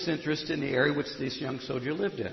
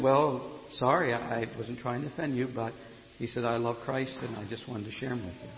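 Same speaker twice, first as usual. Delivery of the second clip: meek apology; 4 semitones lower, 5 dB quieter than usual. Retold or imitated. Soldier meekly apologizes after outburst.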